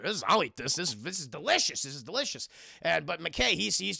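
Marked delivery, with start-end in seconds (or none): 0.0-2.5 lightly voiced low dog; talking dog voice. Voicing the bulldog eating thrown pizza, talking dog voice. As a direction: play a dim dog, low-pitched.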